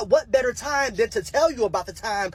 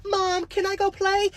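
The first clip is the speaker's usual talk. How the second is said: put-on little girl asking; 11 semitones higher than usual. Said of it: "she goes to ask her mom".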